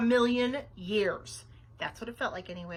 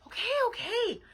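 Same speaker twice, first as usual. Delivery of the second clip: higher-pitched, exasperated grumble; grumbling; 10 semitones higher, 5 dB louder than usual. A narrator's reading. Babysitter fetching a ladder for the girls, grumbling. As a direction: give in with irritation. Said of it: "grumbled Nancy".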